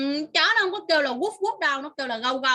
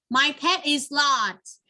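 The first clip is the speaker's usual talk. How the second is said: slow reading; much slower than usual. Shown as a demonstration. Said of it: "hãy tìm ra cái con vật".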